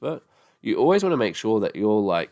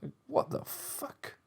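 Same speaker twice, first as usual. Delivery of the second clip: disbelief; 13 dB quieter, slower than usual. Real, not acted. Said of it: "disbelieving aside".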